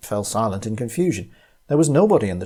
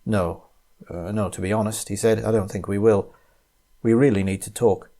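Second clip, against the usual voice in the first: morose. Acted. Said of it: "with a morose expression".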